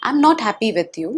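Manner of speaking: put-on angry child. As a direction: voice the child's anger for him. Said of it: "I can speak like".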